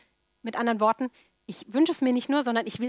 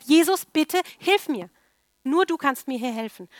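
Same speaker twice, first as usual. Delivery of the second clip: pleading cry; 4 semitones higher, 5 dB louder than usual. Acted. Woman pleading with Jesus again.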